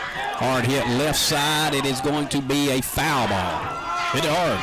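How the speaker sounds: talking with mouth full; commentary through a mouthful of burger. Real, not acted. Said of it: "Don't talk with your mouth full".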